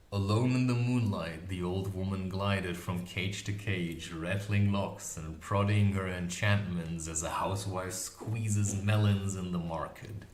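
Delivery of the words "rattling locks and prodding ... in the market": plain reading voice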